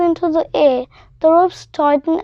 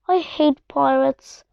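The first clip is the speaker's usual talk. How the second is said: weary sigh; 2 semitones lower, 3 dB quieter than usual. Acted. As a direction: let it out on a tired sigh. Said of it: "sighs Terry".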